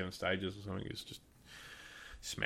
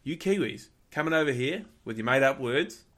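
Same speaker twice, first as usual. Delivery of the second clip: higher, louder teasing jab; mock indignant; 6 semitones higher, 6 dB louder than usual. Australian shooter teasing the Kiwi about his words, mock indignant. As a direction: needle the Kiwi, half joking. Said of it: "And he's like".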